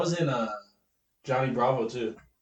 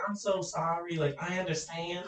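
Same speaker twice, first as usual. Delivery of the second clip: softer imitation country accent; 9 dB quieter than usual. Coworker staying in character with a mad customer, soft country accent. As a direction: softly mimic a country-accented apology. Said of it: "Like that".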